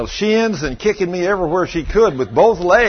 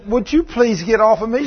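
high-pitched retold female complaint; mildly exasperated, pitched up; indignant protest; 7 semitones higher than usual. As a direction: protest being held down. Acting the bewildered woman's protest.

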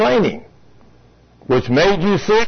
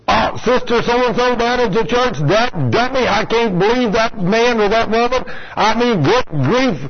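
higher, scornful church-gossip voice; gossiping mockery; 5 semitones higher than usual. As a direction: mimic a catty churchgoer running someone down. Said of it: "we talk out loud like this as Christians".

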